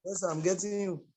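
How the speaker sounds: faint, hard-to-hear voice; barely audible. Real, not acted. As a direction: voice too low to hear. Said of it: "But your voice is very low".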